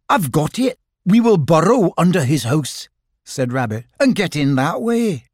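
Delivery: a sudden bright idea; excited Rabbit. Acted.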